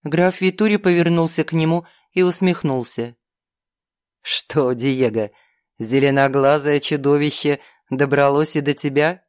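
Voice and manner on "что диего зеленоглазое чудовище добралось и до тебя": demon count voice. Acted. (низкий насмешливый голос демона)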